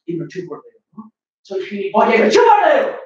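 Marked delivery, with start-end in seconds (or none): 1.4-3.0 sarcastic retort. Acted.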